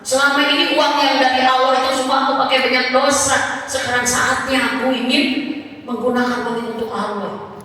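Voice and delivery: repentant husband. Retold or imitated. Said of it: "kenapa dia bilang gini".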